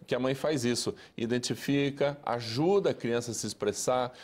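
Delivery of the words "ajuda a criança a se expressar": usual speaking voice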